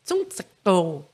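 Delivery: "Tsum tsakto" sounded out slowly, syllable by syllable, Cantonese-style; Cantonese street name. Shown as a demonstration. Recalling her Hong Kong street name, slow careful Cantonese. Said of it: "Em cantonês era alguma coisa tipo".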